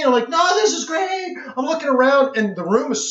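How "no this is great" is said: dazzled. Retold or imitated. Dazzled newcomer replies to guide.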